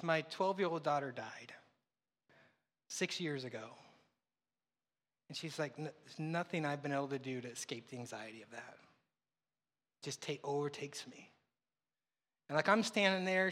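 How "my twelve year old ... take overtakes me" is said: quiet grief. Retold or imitated. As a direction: let her loss weigh on each word. Grieving mother's words retold.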